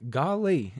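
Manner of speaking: slow Southern drawl on a quote; mock Southern accent. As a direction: stretch it out with a Southern twang. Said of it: "easier for me to do Southern".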